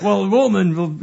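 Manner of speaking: loud, far-off pirate accent; West Country pirate. Shown as a demonstration. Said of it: "All pirate are from the West Country".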